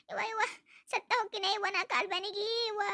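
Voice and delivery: a slow, theatrical moan of pain; mock wailing.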